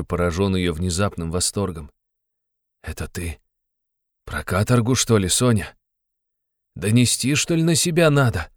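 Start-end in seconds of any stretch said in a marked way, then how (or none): 2.8-8.5 gloomy question. A narrator's reading. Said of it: "спросил он мрачно".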